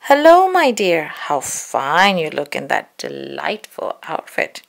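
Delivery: slow, oily flattering wolf; butter her up like a sly wolf; a smooth wolf sweet-talking the girl. Acted.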